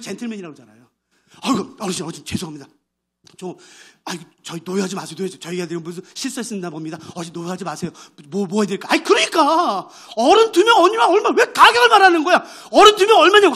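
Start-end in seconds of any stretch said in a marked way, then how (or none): 1.4-8.9 조용하고 낮게 달래는 매니저; 노한 어르신을 달래는 매니저의 공손한 말투; soothing apology. Retold or imitated. Polite manager soothing old man. 8.9-13.6 답답해하며 크게 따지는 할아버지; 종업원에게 값을 재촉하는 할아버지의 외침; insistent shout. Retold or imitated. Grandpa yelling price.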